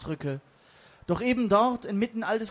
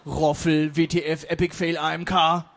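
low, loud dumb monotone; internet acronym; 4 semitones lower, 6 dB louder, slower than usual. Acted. Internet slang backs up his brother, low and blunt. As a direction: bark out each abbreviation in a low voice. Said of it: "das Internetkürzel, fügte hinzu".

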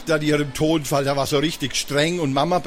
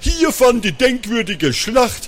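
deep voice; 3 semitones higher, 3 dB louder than usual. Acted. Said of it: "rief mit tiefer Stimme".

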